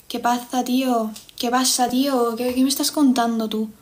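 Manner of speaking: imitation Castilian Spanish; Spain accent. Streamer imitating accents for her chat, Spain accent. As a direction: put on a light peninsular Spanish accent. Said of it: "vamos a imitar acentos".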